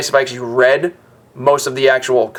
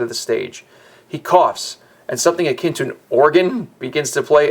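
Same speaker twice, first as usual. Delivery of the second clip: deliberate, theatrical read-aloud; story narration. A narrator's reading. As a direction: set the scene for a solemn play.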